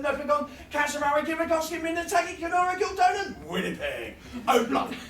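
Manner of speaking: tongue twister sprint from Signal Hill to Vancouver, climbing to a shout; rapid place name tongue twister. Shown as a demonstration. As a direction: race across the country name by name, building to a yell. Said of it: "the longest tongue twister".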